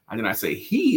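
"he" lifted and pointed; single out "he", someone else did it; stress on HE. Shown as a demonstration. Explaining it was someone else, stress on "he". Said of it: "it was someone else".

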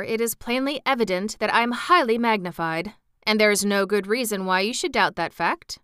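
a hint of a vain bug explaining his size; pompous insect gentleman. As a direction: lecture him with a hint of self-importance. Wogglebug lecturing the Scarecrow.

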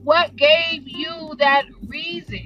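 drawn-out, emphatic disbelief; mind blown. Retold or imitated. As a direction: demand an explanation, incredulous. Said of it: "mind blown".

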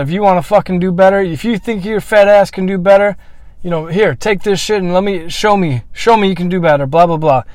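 yelling at the coach after quitting, retold with heat; retold angry outburst. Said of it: "absolutely lose my shit".

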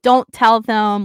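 high, urgent encouragement; voicing Liam encouraging. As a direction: cheer her on through the pain. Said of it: "and he's like".

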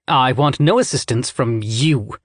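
slow, bitter stress on "you" in "I want no assistance from you"; vitriol on you. A narrator's reading. Scythe refusing help from Rowan, bitter stress on "you". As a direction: lean hard and slow on "you", full of contempt. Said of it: "the emphasis on the word you filled with more vitriol".

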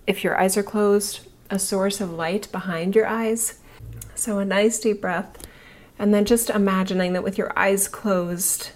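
calm her listeners into their bodies; soothing massage murmur. Acted. Guided visualization continues.

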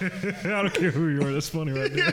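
laughing put-on country southerner; southern good-old-boy, half laughing; mock southern accent. Riffing on friend's southern accent, mock southern.

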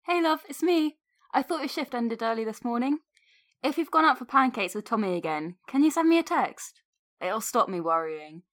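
casual, affectionate voicemail with lilting pitch; caring partner. Acted. Partner phoning her love about pancakes and dinner, caring.

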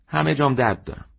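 high, hurting plea; a hint of a young woman in pain. A narrator's reading. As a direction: let the pain of every limb sound through. Despairing customer answers.

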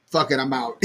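mock grandpa line, laughing through it. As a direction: play the grandpa quitting, cracking up. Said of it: "He would have been like".

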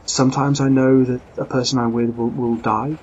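the lady insists, alarmed and forceful; urgent lady. Acted. Lady urgently warns of danger.

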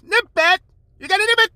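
high loud nervous deputy; Don Knotts impression. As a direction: yelp it like a jumpy lawman. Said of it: "Like Don Knotts".

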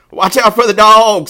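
high, loud sheep call; sheep warning. A narrator's reading. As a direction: bleat out an urgent warning. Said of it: "said the sheep".

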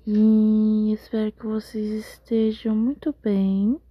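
sleepy slow whisper. Real, not acted. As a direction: whisper it, drowsy. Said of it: "eu tô sussurrando porque eu tô com sono".

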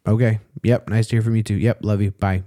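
imitating brief, dismissive phone replies; short with her. Son on Christmas call with his mother, short with her. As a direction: rattle off curt one-word answers. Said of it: "I was very short with her".

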